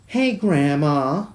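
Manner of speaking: put-on a slow male voice that comes out like a kid; attempted male voice. Greeting Grandma in a failed male voice, kid-like. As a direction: try a grown man's greeting, end up sounding like a child. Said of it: "I'm trying to do a male voice, but I realize it sounds like a kid".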